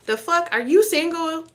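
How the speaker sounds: sudden high-pitched "the fuck?"; shocked disbelief. Real, not acted. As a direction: jolt up in pitch, caught off guard. Shocked by cards about the relationship.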